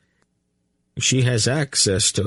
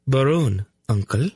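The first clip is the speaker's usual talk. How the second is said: prim; 6 semitones higher than usual. A narrator's reading. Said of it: "corrected primly".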